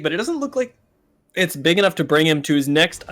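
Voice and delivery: speaking through hiccups; words broken by hiccups; hiccuping. Real, not acted. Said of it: "I'm sorry, I'm hiccuping".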